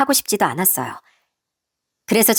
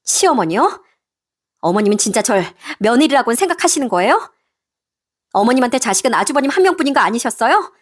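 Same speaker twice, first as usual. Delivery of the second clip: mildly indignant daughter-in-law; hurt, firm daughter-in-law; 3 semitones higher than usual. Acted. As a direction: answer back firmly to your mother-in-law. Daughter-in-law answers back.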